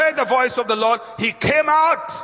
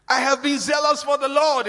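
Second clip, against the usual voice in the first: raised-pitch plea of grievance; mild self-pitying protest; 6 semitones higher than usual. Acted. Elijah pleading his record to God, aggrieved. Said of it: "Elijah says".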